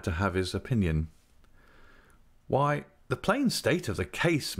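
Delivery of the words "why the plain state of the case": gentle. Acted. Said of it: "mildly breaking the truth to her".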